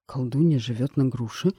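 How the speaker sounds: startled king, a hint of alarm; frightened exclaim. King startled that a witch lives in the pear tree, frightened exclaim. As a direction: gasp it out, caught off guard by the news. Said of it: "испуганно воскликнул король".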